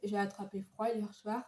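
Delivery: hoarse voice from a cold; raspy, worn-out voice with a cold; voix cassée. Real, not acted. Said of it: "j'ai la voix cassée". (voix cassée et enrouée par un rhume)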